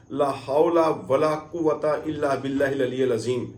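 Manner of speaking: chanted Arabic phrase, measured; recitation. Shown as a demonstration. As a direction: recite it like a dhikr. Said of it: "ये पढ़ते जाना है".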